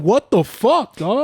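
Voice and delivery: high, loud indignant question; retold exasperation. Guest retelling his reaction to drunk partygoer, exasperated outburst. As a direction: throw it out in exasperated disbelief.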